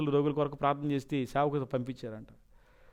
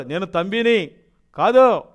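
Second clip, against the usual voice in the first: retold demon's threat; demon speaking; 6 dB louder than usual. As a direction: announce yourself as a fallen angel, loud. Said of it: "అన్నాడు".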